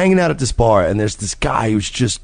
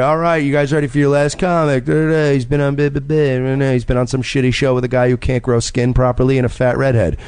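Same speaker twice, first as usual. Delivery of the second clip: lightly imitated host intro, lifting at the end; comedy show emcee; 3 semitones higher than usual. Imitating the host introducing the last comic, light announcer lilt. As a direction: breeze through the credits, then stretch the name higher. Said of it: "all of a sudden I hear".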